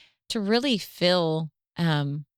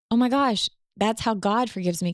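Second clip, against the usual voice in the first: higher-pitched, amazed retold epiphany; sudden realization; 6 semitones higher than usual. Wife recalling her light bulb about God's forgiveness, amazed realization. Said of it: "having this light bulb of".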